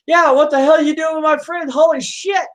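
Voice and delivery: high-pitched, indignant protest; outraged yell. Acted. Prostitute protesting for her friend, outraged high yell. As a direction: shriek it in mock outrage.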